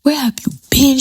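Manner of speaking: a light take on the demanding friend; imitating friend. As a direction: voice the friend up high. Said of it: "She's like".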